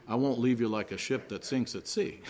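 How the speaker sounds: laughing. Real, not acted.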